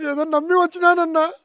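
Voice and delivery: breaking into a sob while begging; tearful plea. Acted. Desperate man begging his elder brother for a loan, crying. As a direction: plead through tears, voice cracking.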